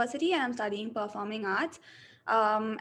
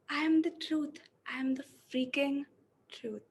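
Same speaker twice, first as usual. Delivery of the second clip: depressed, hopeless reading. Shown as a demonstration. Acting student reads the first version, depressed and flat. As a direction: let the lines sink with no hope. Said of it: "let me go with the first one".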